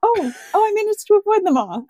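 high, loud hammed-up terror, then relief; mock panic. Retelling dodging boss attacks, high panicked squeal. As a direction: squeal like the floor is lava. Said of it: "just being like".

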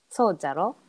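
そうじゃろ said with the Hiroshima ending じゃろ; Hiroshima dialect. Shown as a demonstration. Explaining to a friend, Hiroshima dialect ending. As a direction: swap でしょ for a dialect じゃろ. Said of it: "「そうでしょ？」とかいう時は".

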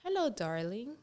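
playful imitation of a British accent; English accent. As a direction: copy an Englishwoman's greeting. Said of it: "El acento inglés". (acento inglés imitado, juguetón)

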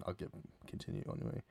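unvoiced mutter to himself; whispered aside. Real, not acted. Talking to himself while losing the thread, whispered. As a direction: drop to a whisper and move on.

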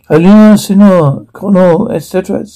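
fake Latino accent. Salsa seller calling out to a customer, fake Latino accent. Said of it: "See, fake accent".

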